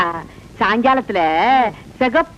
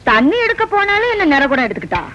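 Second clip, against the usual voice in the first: calling out; 5 semitones higher, faster than usual. Acted. Calling out to Vasanthi.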